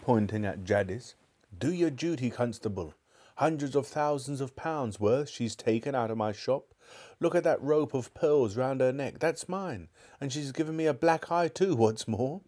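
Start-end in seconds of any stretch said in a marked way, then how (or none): 1.6-12.4 high, aggrieved Cockney shopkeeper; indignant shopkeeper. Acted. Shopkeeper demanding the constable act, high and aggrieved. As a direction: whine about your stolen pearls.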